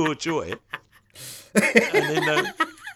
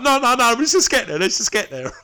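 eager; 10 semitones higher, 5 dB louder than usual. Retold or imitated. Retold eager reply to wife.

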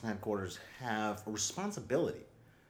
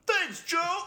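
put-on much higher grateful child; kid voice; 5 dB louder than usual. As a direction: chirp thanks like a kid. Kid thanking cartoon hero.

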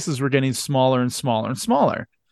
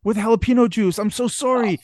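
higher, sing-song fake sorry; hammed-up innocent apology, pitched higher; mock innocent apology; 5 semitones higher than usual. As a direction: fake regret while enjoying it. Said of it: "John Cox is like".

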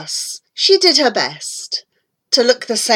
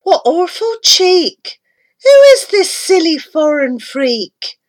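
indignant outburst; 5 semitones higher, 3 dB louder than usual. Acted. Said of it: "she cried".

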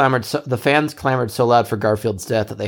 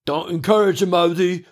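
shouting; 7 semitones higher, slower than usual. Acted. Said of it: "shouted Orson".

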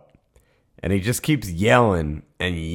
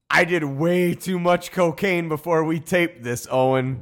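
wired confession voice; 8 semitones higher than usual. Retold or imitated. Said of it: "code for".

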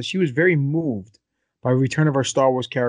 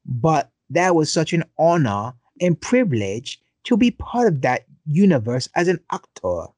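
mock British accent. Host rereads the actress's quote in a mock British accent. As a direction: put on a posh British voice for the quote. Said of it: "let me do it in a British accent".

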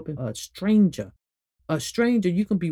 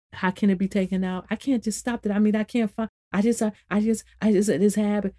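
higher-pitched imitation of a flustered doubter; helpless objection; 4 semitones higher than usual. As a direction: stammer out excuses like a stuck listener. Voices a listener's helpless objection.

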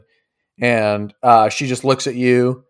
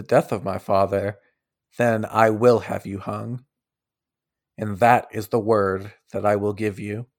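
grave princess warning; 2 semitones lower, 4 dB quieter than usual. Acted. Scene: the princess warns Silas she'll have him hung, grave.

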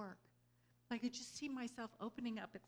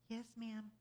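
nice soft voice; 3 semitones higher than usual. Retold or imitated. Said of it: "In a nice, soft voice".

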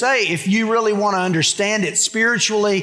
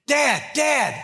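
1 excited calling; 7 semitones higher than usual. Retold or imitated. Child calls to father excitedly.

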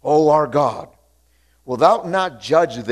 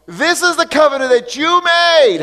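a believer praying boldly over a situation, raised voice; bold prayer to the Father; 7 semitones higher, 3 dB louder than usual. Pretend. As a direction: claim the covenant before God, lifted and firm. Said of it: "speak the word ... and say".

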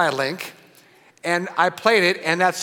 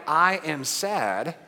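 slow spoken example; much slower than usual. Shown as a demonstration. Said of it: "when we say things like".

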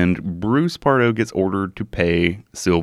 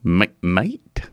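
put-on Australian accent; much slower than usual. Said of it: "practice your Australian accent".

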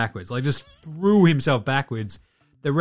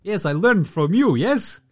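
a high, put-on foreign voice, smug and teasing; mock Luka; 6 semitones higher than usual. Luka taunting Chris Paul about flopping, mock smug high voice. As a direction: ham up a smug foreign star gloating. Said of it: "And Luka's like".

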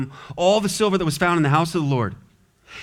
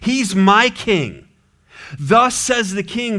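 confident; 5 semitones higher, 3 dB louder, slower than usual. Retold or imitated. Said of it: "He's pretty confident here".

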